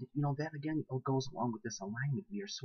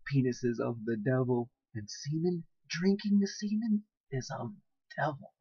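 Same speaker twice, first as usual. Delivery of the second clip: lightly acted churchgoer, louder by the end; mock church condemnation; 3 semitones higher, 5 dB louder than usual. Speaker imitating churchgoers calling sex sinful, mock condemnation. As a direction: denounce it in mock outrage, stretching the end.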